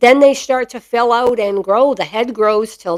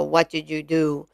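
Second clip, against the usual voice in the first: lower, softer scolding tone; dropped voice; 6 semitones lower, 8 dB quieter than usual. Shown as a demonstration. Owner to her mastiff after mischief, dropped low scolding voice. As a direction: drop the voice low like scolding a guilty dog. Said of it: "I drop my voice and I go".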